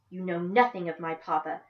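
tight, restrained anger; a hint of clenched jaw; through gritted teeth. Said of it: "Through gritted teeth".

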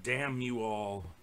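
slow, drawn-out fist-shaking curse; sputtering foiled villain. Pretend. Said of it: "Greg shakes his, his fist at the skies".

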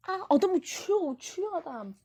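high, loud startled yell at a flying player; suddenly high and loud, caught off guard; startled cry. Real, not acted. Shouting in surprise as the player flies up.

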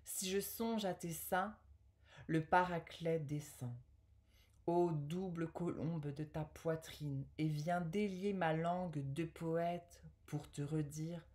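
measured poetry reading with pauses between verses; poem recital. Acted. Woman reading an Apollinaire love poem to viewers, poem recital. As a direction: recite the verse phrase by phrase, carefully articulated.

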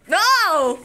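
sharp loud startled no; sudden no. Real, not acted. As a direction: burst out with a surprised no. Student's answer gets a reaction.

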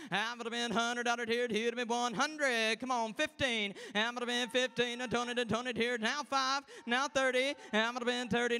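rolling auctioneer bid chant. Acted. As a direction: call the bids like an auctioneer. Auction contest bid calling.

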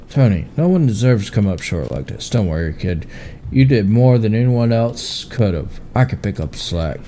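low, gruff uncle voice. Acted. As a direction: play the tough but caring uncle.

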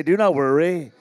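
loud, emphatic DO NOT WORRY. Shown as a demonstration. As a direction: project it for a crowd to echo. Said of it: "Come on, say it louder".

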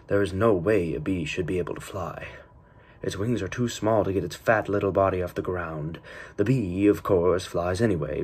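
loud, projected quote reading; film-intro recitation. Acted. Essayist quoting the Bee Movie's introduction, loud projected recitation. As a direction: recite it out loudly, like an opening narration.

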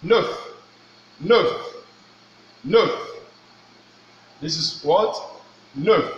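"Neuf" drilled with rising tune; French pronunciation. Shown as a demonstration. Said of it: "this one is talking about what?".

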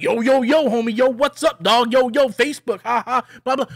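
lightly voiced slang-spouting characters, punchy; mock slang hype. Reviewer imitating six or seven movie characters, mock slang hype. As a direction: parody them, running into blah-blah. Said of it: "six or seven characters in this movie".

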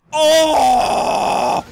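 drawn-out high cry of "oh"; held exclamation at full voice; long loud groan. Real, not acted. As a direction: let out a long, loud wail. Race climax.

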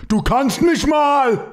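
slow, high hammed-up German, laughing; old German man. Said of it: "like an old man German".

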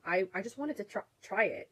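hiccuping between words, real hiccups. Real, not acted. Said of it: "Excuse me, I have the hiccups".

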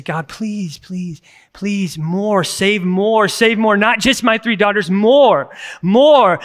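pleading prayer swelling to a shout; fervent prayer. Retold or imitated. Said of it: "And I just broke".

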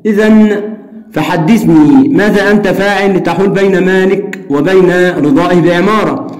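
steady reading of a story dialogue; reading aloud. Shown as a demonstration. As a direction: read the exchange out for the class. Reads dialogue passage aloud. (قراءة حوار القصة بهدوء)

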